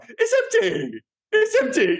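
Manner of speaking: very high mock yell, oddly mispronounced; garbled movie-line impression. Co-host recalling a line he and his brother parrot, high mock shout. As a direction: squeal it out like a botched action-film line. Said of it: "forgot how to say the word empty".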